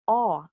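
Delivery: AW said as in fraud; aw vowel sound. Shown as a demonstration. Teacher demonstrating the half O, open AW. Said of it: "is articulated as".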